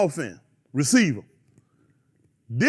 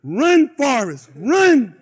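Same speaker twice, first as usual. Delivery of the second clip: Run Forrest; 7 dB louder, much slower than usual. Retold or imitated. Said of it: "What I need to do?".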